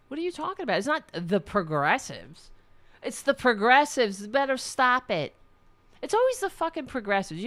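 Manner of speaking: sarcastic rant at the pundits, pitch shooting up; shouting back at the TV hosts in exasperation; mock yelling at TV. Yelling at TV pundits about progressives, mocking outrage. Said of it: "I was screaming at the T V".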